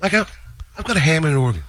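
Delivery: John's voice. Retold or imitated. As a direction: gush about the organ. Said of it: "a story about something John said".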